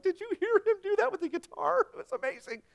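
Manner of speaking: high, gushing delight; thrilled concertgoer. Retold or imitated. Dad at a concert gushing to his wife, high and excited. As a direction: rave about the guitar solo. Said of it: "I'm like".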